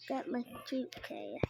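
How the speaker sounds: breathy whisper. Real, not acted. Kid sneaking off with her suitcase, whispering. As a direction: whisper it so nobody wakes. Quietly fetching suitcase at night.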